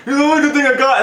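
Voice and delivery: imitating a high, crying whine; mock weepy. Husband clinging to his wife, mock-weepy whine. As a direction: whimper it high, hammed up. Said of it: "he's, like, crying and".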